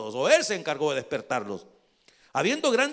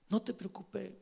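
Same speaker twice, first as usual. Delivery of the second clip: hushed, soothing reply; gently calm a worrier; soft reassurance; 9 dB quieter than usual. Acted. God reassuring nervous David, soft reassurance.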